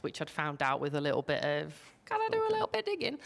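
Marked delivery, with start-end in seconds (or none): 2.1-3.2 sneaky quick aside. Retold or imitated. Herself asking about digging around.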